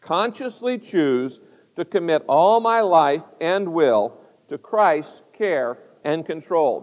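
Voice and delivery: slow, deliberate group reading; slow recitation, phrase by phrase, low at the close; reading aloud together. Real, not acted. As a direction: lead a congregation reading in unison, slowly. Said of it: "Would you read it with me? Let's, let's read it aloud".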